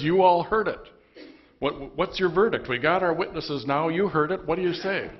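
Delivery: loud, high, raging demand; enraged high priest. Acted. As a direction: rail at the crowd for a verdict. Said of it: "He's so angry. He's in this rage".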